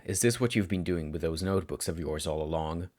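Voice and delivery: low, lightly voiced cold teacher; a touch of unintended chill toward the student. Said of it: "His voice had come out colder than he intended".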